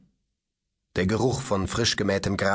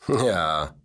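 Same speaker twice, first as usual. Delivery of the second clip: drawn out; 5 semitones lower than usual. Acted. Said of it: "sagte er gedehnt".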